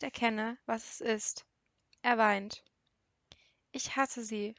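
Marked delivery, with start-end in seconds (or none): 3.7-4.5 broken, whispered through tears; voiceless, tear-choked whisper; sobbing whisper. Acted. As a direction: barely breathe the words out while crying. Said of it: "schluchzt er, die Stimme gebrochen".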